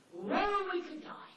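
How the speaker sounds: sudden high startled cry; the dog panics at the noise; alarmed dog. Pretend. Dog startled by a noise, cries out high and loud.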